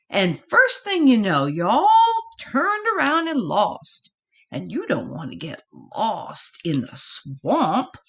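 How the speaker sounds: high, cautioning mother voice; worried mama. Acted. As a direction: spell out the danger like a fretting mama. Mama explains swamp dangers.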